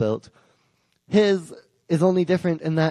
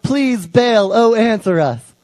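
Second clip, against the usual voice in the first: higher, louder pleading cry; desperate mock wail to Baal; 5 semitones higher, 4 dB louder, slower than usual. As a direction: beg the silent god to answer. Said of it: "They're crying out".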